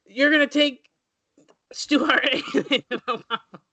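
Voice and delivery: high wrestling promo, laughter creeping in; Ric Flair. Acted. Wrestler threatening a rival, high promo voice breaking into laughter. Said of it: "Rick, what do you gotta say".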